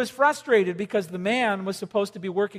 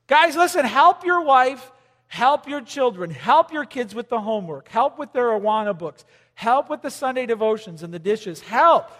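preaching; 3 semitones higher, 5 dB louder than usual. Real, not acted. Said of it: "preaching to the men".

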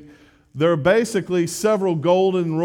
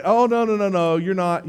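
hasty protest; 3 semitones higher than usual. Retold or imitated. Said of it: "And, and".

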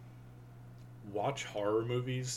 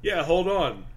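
higher, louder playful reply; mock cooking partner; 8 semitones higher, 8 dB louder, slower than usual. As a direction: answer like a cooking show helper. Mock cooking show dialogue.

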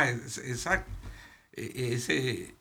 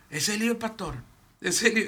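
higher, pointed gossip voice; mocking gossip; 6 semitones higher, much faster than usual. Pastor mimics church members singling out his son, mocking. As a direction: needle him like church busybodies.

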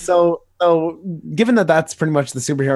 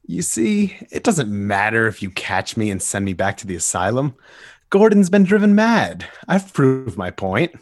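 Joker; 4 semitones lower than usual. Acted. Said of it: "J D will be playing Joker".

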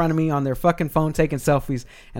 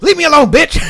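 whisper yelling; 14 semitones higher, 11 dB louder than usual. Retold or imitated. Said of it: "But he's, like, whisper yelling".

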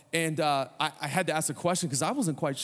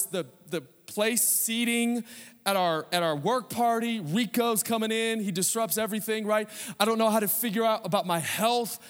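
sample prayer; 2 semitones higher than usual. Acted. Pastor voicing a congregant's prayer to God, earnest and pleading. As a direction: pray it out like a worried believer trusting God.

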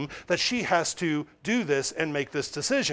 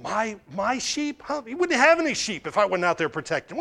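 mock-indignant ranting to oneself, pitched up; David working himself up; 4 semitones higher than usual. Preacher acting out David stewing over his sheep, mock indignation. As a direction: sputter it out, building into a quick mumbled rant. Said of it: "getting so angry".

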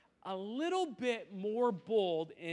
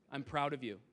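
tender praise; 5 semitones lower than usual. Real, not acted. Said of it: "I might get emotional".

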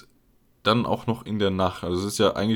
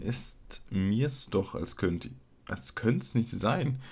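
softer, measured poem reading; Gedichtvortrag; 4 dB quieter than usual. Acted. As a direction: recite quietly, slowing towards the end. Liest das Gedicht noch einmal vor. (leiser, ruhiger Gedichtvortrag)

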